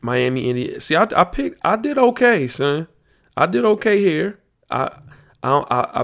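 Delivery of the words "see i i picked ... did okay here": excited. Real, not acted. Bracket host gloating to viewers, high excited brag. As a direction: brag about your picks, voice climbing.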